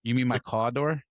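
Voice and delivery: slow put-on Brooklyn accent; imitated Brooklyn accent. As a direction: mimic her Brooklyn accent on "car door". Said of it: "She does that accent".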